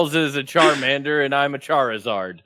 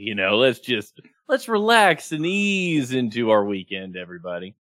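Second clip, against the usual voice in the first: smooth, laid-back voice; 3 semitones lower than usual. Shown as a demonstration. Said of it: "much more even keeled, not as high energy".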